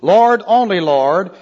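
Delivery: emphatic Lord, only Lord; great emphasis. Shown as a demonstration. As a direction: Lord hit firmly, then repeated after "only". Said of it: "great emphasis".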